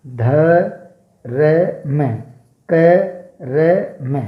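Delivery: each letter ध, र, म said separately with pauses; sounding out letters. Shown as a demonstration. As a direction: break the word into single sounds. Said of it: "और यहाँ देखिएगा". (अक्षर-अक्षर अलग बोलना)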